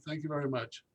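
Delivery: unvoiced, soft whisper; whispered thanks. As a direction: whisper it defeated under your breath. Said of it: "repeated thanks whispered".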